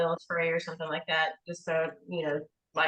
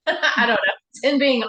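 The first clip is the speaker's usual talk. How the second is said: laughing; 6 semitones higher, 7 dB louder than usual. Real, not acted. Laughs at her own joke.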